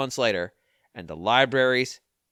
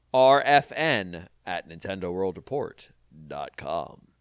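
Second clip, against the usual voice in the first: slow, deliberate address; 6 semitones lower, slower than usual. Shown as a demonstration. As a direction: spell out "R F N at Nintendo World Report dot com" slowly, each letter separate. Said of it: "repeated deliberately".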